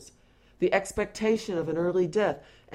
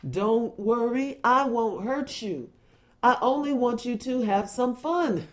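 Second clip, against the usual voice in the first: slowed-down song voice; 4 semitones higher than usual. Retold or imitated. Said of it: "opens with this voice saying".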